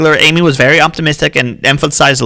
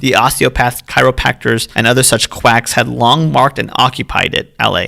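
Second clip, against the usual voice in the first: put-on lightly raised old-time reading voice; old-timey voice. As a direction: read it like an old newsreel, lightly. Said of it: "should I read an old-timey voice?".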